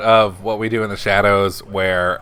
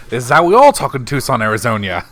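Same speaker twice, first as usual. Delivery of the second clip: Jackie Daytona impression; 3 dB louder than usual. Retelling a favorite TV episode, imitated bartender. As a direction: imitate a vampire posing as a regular guy. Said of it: "Jackie Daytona".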